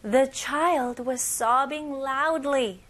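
loud repeat. Shown as a demonstration. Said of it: "큰 목소리로 같이 한번 따라해볼게요".

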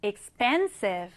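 exPENsive, "expensive" with clear stress on PEN; slow, careful "expensive", leaning on the middle syllable; stressed syllable brought out. Shown as a demonstration. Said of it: "강세를 살려서".

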